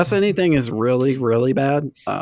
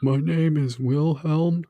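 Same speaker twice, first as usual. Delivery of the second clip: put-on wise old sage; slower than usual. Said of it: "You, you sound very, uh, wise".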